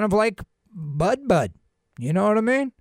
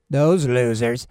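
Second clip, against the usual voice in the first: contemptuous dismissal; 8 semitones lower, slower than usual. Acted. Dismissing an anti-cannabis group.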